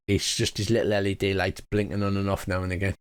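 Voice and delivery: ordinary talk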